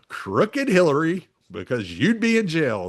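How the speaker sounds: high-pitched mock political taunting; Donald Trump. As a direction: mimic a candidate jeering at a rival, pitched well up. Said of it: "It wasn't Trump just going".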